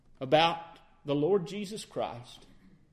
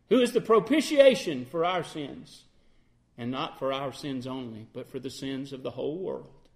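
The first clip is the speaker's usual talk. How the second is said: measured, solemn reading of scripture; 3 semitones lower than usual. Acted. Preacher reading scripture to the congregation, solemn. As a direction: read the verse with weight.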